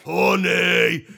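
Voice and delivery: high, loud honey cry; hammed-up scream. Pooh sniffing the bee, a high, loud hammed-up scream. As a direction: scream for honey like a greedy bear. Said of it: "screamed Pooh".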